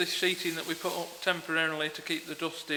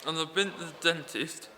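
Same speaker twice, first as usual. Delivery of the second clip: numb mouth; 4 dB quieter than usual. Real, not acted. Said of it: "I've got a very numb mouth".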